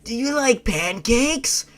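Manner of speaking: high, twitchy Toby voice; Baptism on Fire's Toby. Acted. Toby asking the girl about pancakes, show-style high voice. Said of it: "I gotta do it like Baptism on Fire's show".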